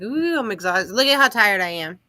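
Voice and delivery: swooping "ooh" into a worn-out complaint; mock exhausted moan. Host acting out herself on the live, mock exhausted. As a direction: play up being wiped out. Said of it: "I'm just like".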